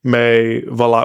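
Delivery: French spoken in a hammed-up American accent; put-on American accent, jokey and deadpan; fake American accent. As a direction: play an American mangling his French on purpose. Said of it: "je me suis réveillé avec l'accent de l'Amérique".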